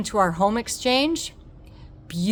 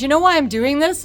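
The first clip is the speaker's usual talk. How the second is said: high, loud playful question; a cheeky setup question, pitched up; lightly voiced surgeon teasing; the surgeon asking; 9 semitones higher, 9 dB louder than usual. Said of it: "He says".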